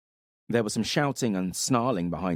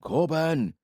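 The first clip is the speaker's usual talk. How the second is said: yelled name; 9 semitones higher than usual. Acted. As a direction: shout his name to get him moving. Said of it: "Attilius yelled".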